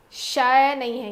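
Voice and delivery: شے said with a flat e, the wrong way; mispronounced شے as a teaching demo; wrong shay. Shown as a demonstration. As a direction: show شے as it should not be said. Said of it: "یہ شے مجہول ہوتا ہے".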